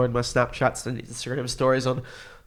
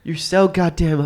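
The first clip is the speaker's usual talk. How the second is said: mock African American woman accent; 5 semitones higher, slower than usual. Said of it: "I can't do an accent".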